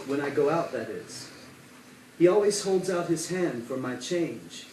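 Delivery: measured poem recital with firm line openings; deliberate, cadenced verse reading; poetry reading. Acted. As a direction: recite it line by line, pausing between phrases. Reads own poem aloud.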